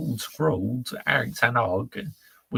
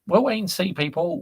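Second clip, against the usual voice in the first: playful tease; 8 semitones higher than usual. Real, not acted. Teasing the chat.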